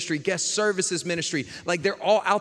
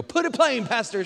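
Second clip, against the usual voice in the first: higher pitched mild mock shout; a churchgoer shouting encouragement, lightly imitated; mock yell from the pews; 6 semitones higher than usual. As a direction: call out to the pastor, lightly hammed. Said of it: "She would yell it".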